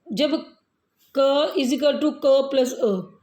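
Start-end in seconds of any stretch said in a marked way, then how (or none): 1.2-3.2 क split slowly into its sounds; slow teacher breakdown; slow demonstration. Shown as a demonstration. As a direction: spell out क and अ very slowly for pupils. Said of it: "क की ध्वनि निकालेंगे".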